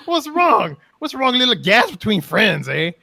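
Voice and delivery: high, loud, laughing mock-innocent troll. Gormal to fleeing crowd, hammed-up troll voice. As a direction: play the grinning troll all innocent. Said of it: "the Gormal looked around like".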